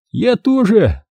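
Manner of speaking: smirking. A narrator's reading. Max smirking back at the axe-wielding diver. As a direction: toss it back with a grin. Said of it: "ухмыльнулся Макс".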